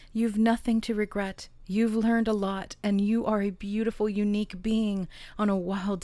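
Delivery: emphatic, encouraging read-aloud; oracle card reading. Real, not acted. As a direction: deliver each phrase as a pep talk to the listener.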